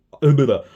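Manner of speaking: loud garbled noise of frustration; tongue-tied blurt. Real, not acted. Speaker fumbles describing the chip fracture, tongue-tied blurt.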